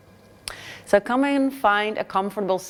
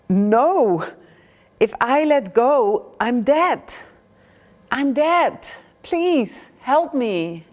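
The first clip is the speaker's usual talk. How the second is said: panicked begging; 5 semitones higher, slower than usual. Acted. Pilgrim on the cliff refuses to let go and begs God, high frantic pleading. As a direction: beg for your life.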